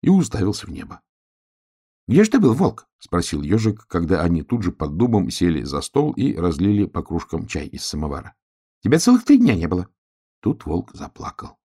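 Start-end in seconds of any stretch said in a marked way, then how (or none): 2.1-2.9 high, loud, excited ask; high eager hedgehog asking the wolf; eager question. A narrator's reading. 8.8-9.9 high, loud, excited ask; high eager hedgehog asking the wolf; eager question. A narrator's reading.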